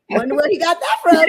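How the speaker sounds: wry quip said through a laugh. Retold or imitated. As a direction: chuckle the words out, amused. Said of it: "I said".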